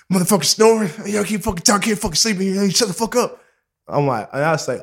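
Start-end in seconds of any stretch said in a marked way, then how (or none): 0.1-3.4 mildly angry mock complaint, higher pitched; imitated snapping. Red snapping at snorers and late-night talkers, imitated anger. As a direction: act out a fed-up rant, pitch raised. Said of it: "Red snapped".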